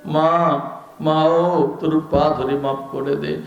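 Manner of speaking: son begging forgiveness. Acted. Son calling to his mother from afar, begging forgiveness. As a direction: beg your mother's forgiveness, fading off. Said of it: "সন্তান দূর থেকে বলে".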